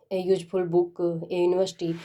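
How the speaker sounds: very slow, each English word laid out; slow example reading. Shown as a demonstration. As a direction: read the examples slowly for the class. Teacher reads examples slowly.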